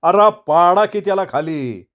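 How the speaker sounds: a hammed-up shout to pull him down; shouting sadhu. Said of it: "साधू ओरडला".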